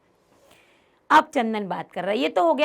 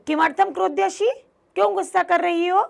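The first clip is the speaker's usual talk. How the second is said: higher, pleading question; puzzled Chandan; 7 semitones higher, 4 dB louder than usual. Acted. Chandan asks his angry wife why, pleading. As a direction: coax her out of anger.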